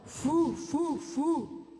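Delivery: low version of an owl hoot; hooty, down low. Shown as a demonstration. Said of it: "Let's do it down low".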